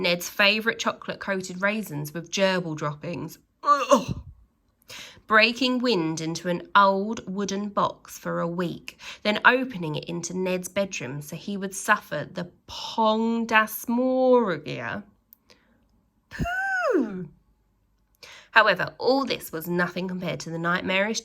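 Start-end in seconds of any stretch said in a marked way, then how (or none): 3.6-4.2 disgusted ugh. Acted. Reader reacts to gerbil droppings. 16.3-17.3 high breathless pooh of disgust. Acted. Reader reacts to the stinky box with a breathy pooh.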